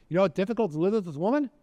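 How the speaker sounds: quick, high-pitched complaint; feigned exasperation. Retold or imitated. Man complains to the Nazi about his pretend wife, feigned exasperation. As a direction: rush it out as an exasperated mock gripe.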